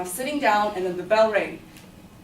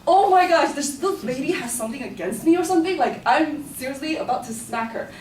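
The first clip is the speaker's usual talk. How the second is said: exasperated; 5 semitones higher, 3 dB louder than usual. Real, not acted. Exasperated outburst at the teacher.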